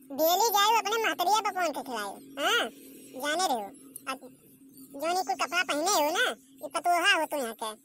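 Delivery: lightly voiced saas, grumbling lecture; a hint of a stern village mother-in-law; scolding mother-in-law. Mother-in-law lecturing daughter-in-law about clothes, mild scolding.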